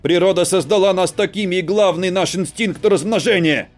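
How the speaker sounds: loud desperate male shout. Acted. Husband shouting to reach his wife, loud. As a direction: yell to get through to her. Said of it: "перешёл на крик".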